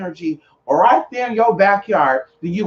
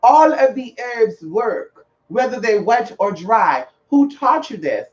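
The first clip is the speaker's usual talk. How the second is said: slow, high scolding owner; the owner correcting the customer, slow and stern; 3 semitones higher, slower than usual. Retold or imitated. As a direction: lecture her slowly as the offended owner. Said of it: "And he said".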